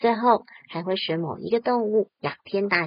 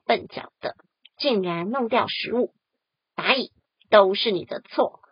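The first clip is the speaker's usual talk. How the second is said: 恼火. Acted. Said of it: "蚱蜢很恼火地说".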